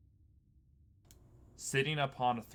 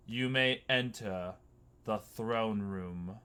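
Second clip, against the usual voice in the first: booming voice; slower than usual. Acted. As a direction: boom it out slowly from a throne. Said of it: "a booming voice echo throughout the halls".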